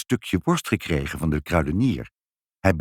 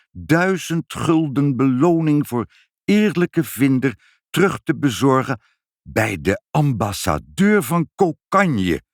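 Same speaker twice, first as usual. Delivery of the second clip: reading out an ad; 4 semitones higher than usual. Acted. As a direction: read the lost-and-found ad aloud with mock solemnity. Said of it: "Lees eens voor, vader".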